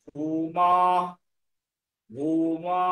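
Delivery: ভূমা with both vowels held long; slow pronunciation model. Shown as a demonstration. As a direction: draw out ভূমা on an even tone. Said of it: "এখানে রয়েছে".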